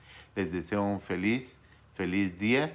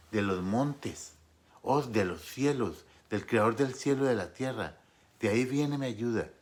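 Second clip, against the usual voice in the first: mother crying out in prayer; 3 semitones higher than usual. Retold or imitated. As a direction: lightly voice a mother calling on God. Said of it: "Yo escuchaba a mi mamá clamar".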